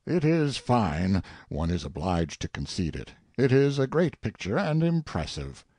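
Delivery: theatrical soliloquy with swings in pitch; lightly acted monarch talking to himself; musing king. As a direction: savour and mock the verse like a critic. King's soliloquy, commenting on poem.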